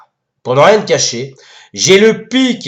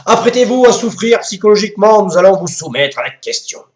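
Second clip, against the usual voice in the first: town crier; 3 semitones higher than usual. Acted. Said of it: "un retour au Moyen-Âge".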